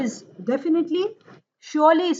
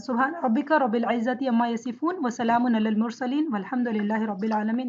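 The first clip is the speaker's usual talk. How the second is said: quiet, lowered Arabic prayer recitation; closing prayer; 2 semitones lower, 4 dB quieter, faster than usual. Real, not acted.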